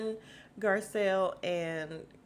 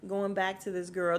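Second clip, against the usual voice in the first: emphatic agreement; 5 dB louder than usual. Retold or imitated. The vlogger siding with Garcelle, loud and fired-up. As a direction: punch it out like a cheer from the couch. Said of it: "And I'm like".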